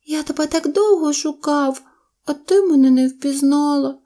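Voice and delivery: high, hurt little voice; close to tears. A narrator's reading. Baby mammoth unrecognised by mother, high and hurt. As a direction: reproach her in a high childlike voice. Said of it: "І воно заплакало".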